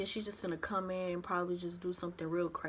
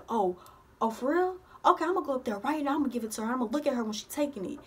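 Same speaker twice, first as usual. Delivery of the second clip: imitating a loud grandma, higher and louder; loud grandma on phone; 4 semitones higher, 5 dB louder, faster than usual. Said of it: "she's really loud".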